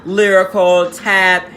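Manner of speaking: eager bragging list. Retold or imitated. Raja showing off her dance training, eager and loud. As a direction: reel off the list, showing off to the choreographer.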